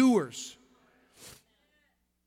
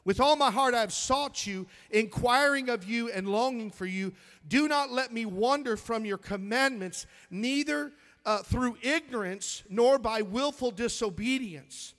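scripture reading; 2 semitones higher than usual. Real, not acted. Pastor reading the verse to the church, proclaiming. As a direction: read it out to the church.

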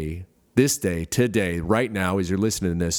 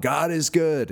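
mock yell; 7 semitones higher, slower than usual. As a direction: imitate an orphan's morning call. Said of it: "somebody would yell out".

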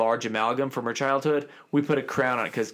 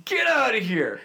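shocked disbelief; 6 semitones higher, 7 dB louder, much slower than usual. Retold or imitated. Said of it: "I was like".

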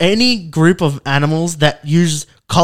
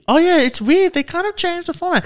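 confused listener voice; 13 semitones higher, 3 dB quieter than usual. Pretend. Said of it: "if anyone asks you".

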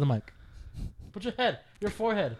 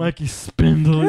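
laughing tease; 6 dB louder, slower than usual. Real, not acted. Mocking friend while laughing.

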